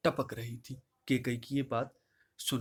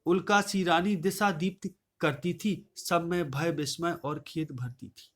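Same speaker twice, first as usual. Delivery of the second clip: raised, measured verse recital voice; poem recitation. Acted. Teacher reciting Kaikeyi's verse to the class, declaiming.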